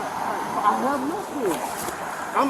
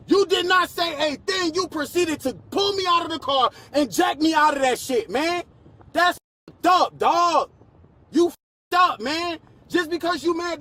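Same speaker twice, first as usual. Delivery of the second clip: angry shouting; 3 semitones higher than usual. Real, not acted. Ranting at the officers.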